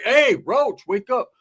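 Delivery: high, loud call; wake-up call. Retold or imitated. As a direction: rouse a sleeper with a shout. Calling out to wake Roach.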